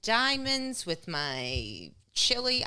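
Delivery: mock fancy customer. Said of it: "is like".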